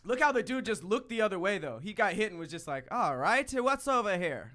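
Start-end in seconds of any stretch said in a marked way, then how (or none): 2.9-4.5 badly faked Irish accent; lightly attempted, poor Irish accent; horrible Irish accent. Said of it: "That was horrible Irish accent".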